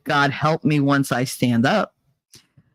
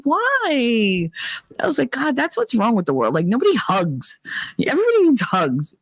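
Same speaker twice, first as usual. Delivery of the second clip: put-on high drunk plea; 6 semitones higher than usual. Drunk defending hugs.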